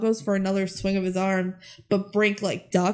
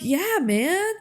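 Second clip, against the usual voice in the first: casual team; 7 semitones higher than usual. Retold or imitated. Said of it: "they're like".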